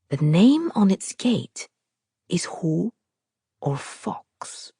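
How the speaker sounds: whispered, dropping to almost nothing on Fox; hushed reveal. A narrator's reading. Narrator reveals the family name in a fading whisper. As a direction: breathe the name like a secret.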